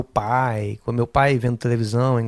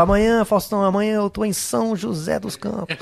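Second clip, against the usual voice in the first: excited caller voice; 7 semitones higher than usual. Retold or imitated. Retells caller phoning Faustão.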